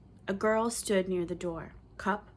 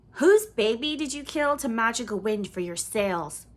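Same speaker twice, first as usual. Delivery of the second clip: called out; 4 semitones higher, 6 dB louder than usual. A narrator's reading. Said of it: "called someone else".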